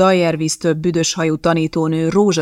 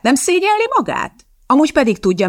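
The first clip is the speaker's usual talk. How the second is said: ordinary delivery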